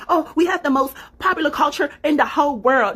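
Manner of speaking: high, sing-song mock of a boastful American; mocking quote. Mocking bragging Americans in a high sing-song. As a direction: parody them bragging. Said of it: "stop talking like".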